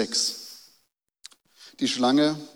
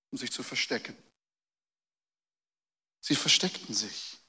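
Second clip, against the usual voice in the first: hushed; 2 semitones lower, 9 dB quieter than usual. Acted. Sermon drops to a hush.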